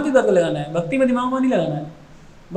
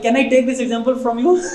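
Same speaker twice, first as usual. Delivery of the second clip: laughing request; 4 semitones higher, much slower than usual. Retold or imitated. Prabhupada humbly asks, laughing.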